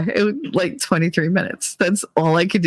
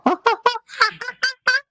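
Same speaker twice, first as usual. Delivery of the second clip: very high monkey hooting; high-pitched mock animal call; imitated monkey noise. Shown as a demonstration. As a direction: whoop like a monkey in place of the accent. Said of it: "instead I go".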